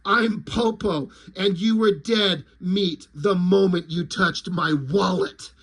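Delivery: slow deliberate tough-guy reveal; a hint of action-hero menace; grim vigilante. Popo revealing himself to the lizards, slow menace. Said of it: "And he says".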